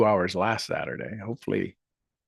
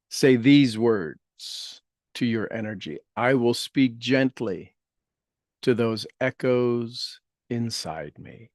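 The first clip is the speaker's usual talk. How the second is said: guided meditation; slower than usual. Acted. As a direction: gently lead listeners through healing words.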